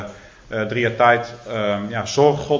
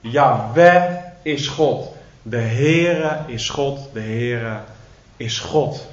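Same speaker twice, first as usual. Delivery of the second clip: solemn confession; slower than usual. Retold or imitated. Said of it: "En ze belijden".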